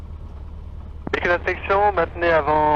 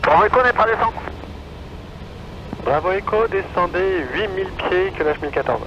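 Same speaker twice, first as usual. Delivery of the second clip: tinny radio transmission; over a radio. Real, not acted. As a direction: heard through the headset. Tower calls other traffic over radio.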